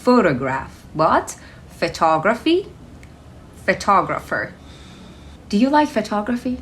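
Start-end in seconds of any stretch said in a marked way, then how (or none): 0.0-0.7 Photograph said clearly with the stress on PHO; pronunciation demo. Shown as a demonstration. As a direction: model Photograph for learners, stress on the first syllable. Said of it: "here is the pronunciation of the word".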